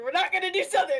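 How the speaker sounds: a hint of a Southern accent. Shown as a demonstration. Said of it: "Incoming Southern".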